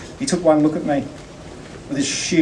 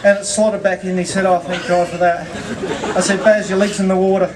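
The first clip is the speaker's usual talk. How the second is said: real laughter breaking into the words, pitched up; fond real laughter running through the words; laughing while telling; 5 semitones higher than usual. Real, not acted. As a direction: chuckle through the story of your mate. Laughing while telling the eulogy story.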